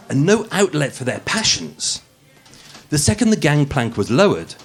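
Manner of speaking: polished, posh narrator read; posh podcast voice. Acted. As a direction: read it like a true-crime podcast host putting on airs. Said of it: "the podcast voice".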